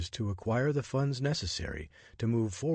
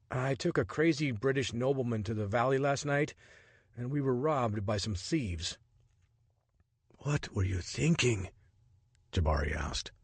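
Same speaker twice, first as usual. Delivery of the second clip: lightly voiced Richard, a touch higher, exasperated; a hint of a startled man grumbling; 4 semitones higher than usual.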